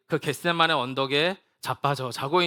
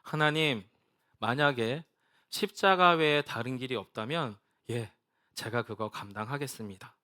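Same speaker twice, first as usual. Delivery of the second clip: surrendering prayer; 4 semitones lower, 4 dB quieter than usual. Retold or imitated. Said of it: "주님은 이렇게 기도하십니다".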